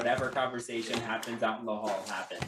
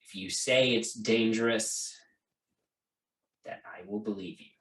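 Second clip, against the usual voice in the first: stern father relenting; 4 semitones lower than usual. Acted. Father speaks privately to daughter.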